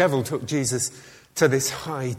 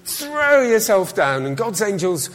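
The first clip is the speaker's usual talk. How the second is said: daring devil voice; 6 semitones higher, 5 dB louder than usual. Acted.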